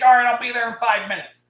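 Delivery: laughing through the words. Real, not acted. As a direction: chuckle as you agree. Laughing while quoting himself.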